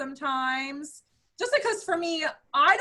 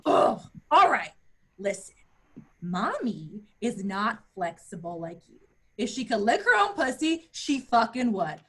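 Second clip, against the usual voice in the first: explaining to cat; 4 dB louder than usual. Retold or imitated. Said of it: "And then I was like".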